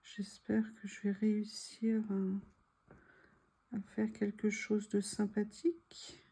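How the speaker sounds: soft whisper while concentrating; whispered hope. Real, not acted. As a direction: whisper it under your breath. Hopeful whisper while cutting.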